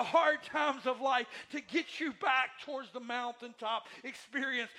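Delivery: reach out and lift them up; comforting God. Acted. Preacher voicing God to the grieving, loud tender comfort.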